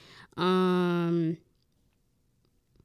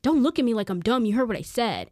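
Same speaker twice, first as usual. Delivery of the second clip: mildly raised, confrontational retort; imitated provocation; 3 semitones higher, 4 dB louder than usual. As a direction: act out a man picking a fight, not full force. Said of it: "he continues to provoke by saying".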